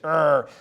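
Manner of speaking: short grumbling "arr" noise; mock growl. Negotiator mimicking negative people, mock growl. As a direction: growl it like a grouch.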